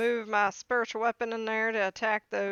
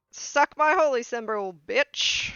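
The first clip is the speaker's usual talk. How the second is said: loud taunt; 6 dB louder than usual. Acted. Cleric taunts undead.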